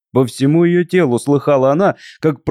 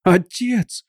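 imploring cry; 5 semitones higher, 3 dB quieter than usual. A narrator's reading. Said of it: "вскричала Катерина".

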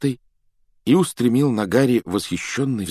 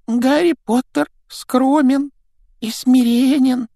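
high elf voice, slow and reverent; 7 dB louder, slower than usual. Acted. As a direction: speak in awe of a hero. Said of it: "почтительно произнёс Добби". (благоговейно, тонким голосом)

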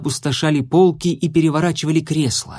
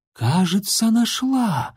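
excited rustle; 8 semitones higher, slower than usual. A narrator's reading. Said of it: "взбудораженно прошуршала зеркалица".

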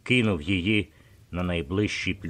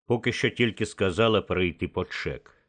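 ordinary delivery, nothing marked

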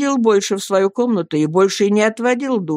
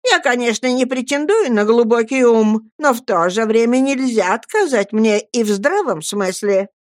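lightly voiced haughty woman, pitch raised; self-defensive protest, pitched up; indignant Miss Murdstone; 5 semitones higher than usual. Miss Murdstone defends her own good sense, mildly indignant.

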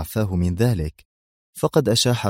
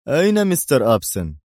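coldly; 6 semitones higher, 4 dB louder than usual. A narrator's reading. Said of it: "وهو يسأل ببرود".

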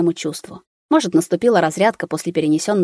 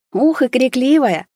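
high, slow admiring exclamation; 6 semitones higher, 3 dB louder, slower than usual. A narrator's reading. Nurse telling father about loud newborn, admiring. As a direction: marvel at the baby's lungs.

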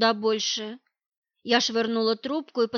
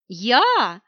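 gasped, louder startled Я?; breathless shock; 6 dB louder than usual. Acted. Heroine stunned by the demand for her car, gasping. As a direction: choke out the word in disbelief. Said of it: "Чуть не задохнулась от обалдения я".

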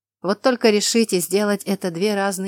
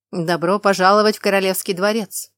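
loud welcome rising at the end; loud herald welcome; 5 dB louder than usual. Acted. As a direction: proclaim it with a lift.

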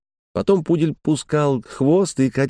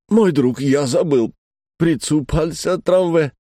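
put-on higher French-accented Russian, slowing at the end; flustered French accent; 5 semitones higher than usual. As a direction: Frenchman fumbling his Russian lines. Frenchman forgets his Russian lines. (растерянно, с французским акцентом)

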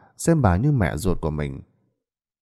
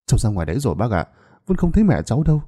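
feigned sorrow; 2 semitones higher, much faster than usual. Acted. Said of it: "làm ra vẻ buồn bã đáp".

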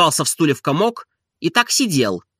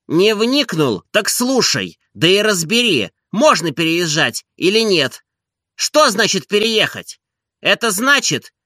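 much higher, emphatic scolding questions; indignant master; 7 semitones higher than usual. A narrator's reading. Oblomov scolding Zakhar, much higher. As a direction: hammer each question at him.

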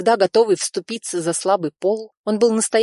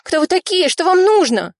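much higher, louder frightened cry; frightened scream; 13 semitones higher, 6 dB louder than usual. A narrator's reading. Nadya crying out as strangers seize her, frightened scream. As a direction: scream in alarm as she's grabbed. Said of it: "женский крик".

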